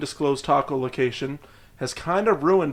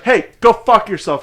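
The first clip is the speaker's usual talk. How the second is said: mildly hammed-up street insult, louder and higher; lightly acted North American heckler; hostile street guy; 6 semitones higher, 8 dB louder than usual. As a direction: play a rude passer-by, drawn out. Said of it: "some guy on the street".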